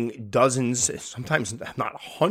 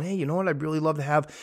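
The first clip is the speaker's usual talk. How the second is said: eager keeper; 4 semitones higher than usual. Retold or imitated. Keeper wishing for offspring, lightly voiced eagerness. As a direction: imitate a keeper getting a hopeful idea. Voicing a keeper's new wish.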